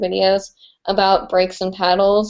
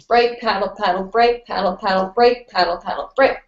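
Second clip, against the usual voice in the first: rhythm call-out. Shown as a demonstration. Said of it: "what breaks and paddles are, is this".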